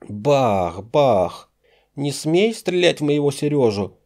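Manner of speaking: high, loud, cracking into falsetto; a terrified girl firing and screaming; girl's breaking scream. A narrator's reading. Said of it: "срывающийся на фальцет девичий крик". (девичий крик, срывающийся на фальцет)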